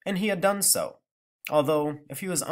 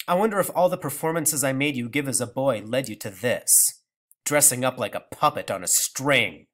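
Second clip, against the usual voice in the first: grandmother voice. Acted. Grandmother scolding.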